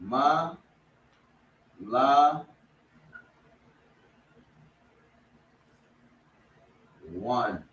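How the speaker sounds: "Ma", "la", "one" said apart with long gaps; slow syllable drill. Shown as a demonstration. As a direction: split "malawan" into its three syllables.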